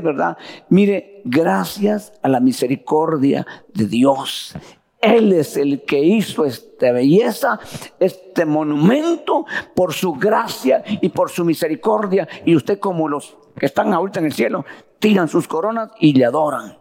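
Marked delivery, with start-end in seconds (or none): 0.7-12.3 humble thanks. Pretend. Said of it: "lo único que va a decir usted".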